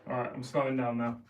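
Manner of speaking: breathless, puffing between words; out of breath. Real, not acted. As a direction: talk while catching your breath. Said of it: "'cause I'm out of breath".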